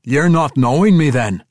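sly dwarf needling. A narrator's reading. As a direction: tease him slyly. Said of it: "Bruenor asked slyly".

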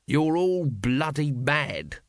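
drawn-out exasperated outburst, held back in volume; mild shout, stretched slow. A narrator's reading. Vimes telling the crowd off, mock shouting. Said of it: "shouted Vimes".

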